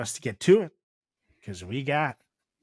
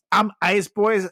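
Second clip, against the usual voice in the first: mock shout; 4 semitones higher, 3 dB louder, slower than usual. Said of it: "He's shouting".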